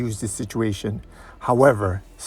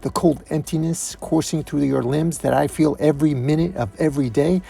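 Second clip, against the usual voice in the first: higher-voiced grieving confrontation; bitter accusation; 4 semitones higher than usual. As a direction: press the accusation with rising emotion.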